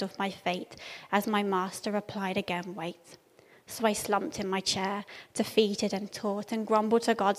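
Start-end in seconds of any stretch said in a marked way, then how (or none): 2.7-3.2 quiet and soft. A narrator's reading. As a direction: barely breathe it, softly. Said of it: "Then quietly, softly I learned".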